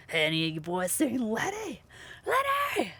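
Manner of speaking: a put-on cowboy voice, then a high yell of the name; hollering for Letty across camp; calling out. Imitating the game's cowboy calling out across the camp. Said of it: "quoting the game character calling out".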